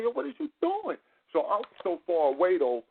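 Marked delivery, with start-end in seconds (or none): 0.0-1.0 retold yell. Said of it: "I got the scream on her".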